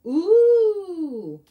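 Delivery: delighted ooh. Real, not acted. Admiring a new paper sheet.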